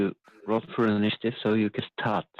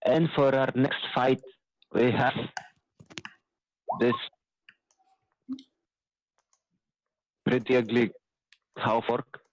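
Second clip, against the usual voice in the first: lightly voiced fight announcer, slightly raised; dwarf ring announcer; 3 semitones higher than usual. Dwarf presenting the next fight to the crowd, lightly put-on announcer. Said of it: "And Dwarf goes like".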